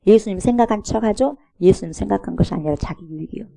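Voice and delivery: ordinary talk, nothing marked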